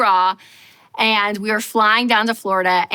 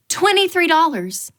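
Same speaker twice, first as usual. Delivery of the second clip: a raised, disbelieving read of the price; stunned; 7 semitones higher than usual. Retold or imitated. Reading an outrageous guacamole price, raised and stunned. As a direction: say it like you can't believe the menu.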